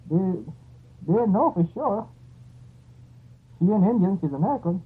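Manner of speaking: excited. Real, not acted. Teller gets worked up.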